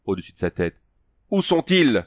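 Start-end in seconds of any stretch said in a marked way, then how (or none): 1.3-2.0 cri aigu, beaucoup plus haut; hurlement du vieux chef. Acted. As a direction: lancer la question comme un cri. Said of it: "hurla le vieux chef". (le vieux chef hurle à Conan)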